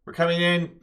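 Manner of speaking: police announcing a raid; shouting police. Acted. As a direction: call out a warning as officers entering. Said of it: "they're shouting just generally".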